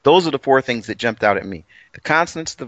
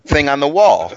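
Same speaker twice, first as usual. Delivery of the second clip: laughing through the words, louder; 4 semitones higher, 4 dB louder than usual. Real, not acted. The speaker laughs at his own fumbling, laughing. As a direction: chuckle as the sentence ends. Laughs at himself mid-sentence.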